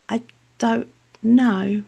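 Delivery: slow, word-by-word admission; stumped reply. Retold or imitated. Angry relative answering the mother, slow stumped reply. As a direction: draw out each word as if stumped.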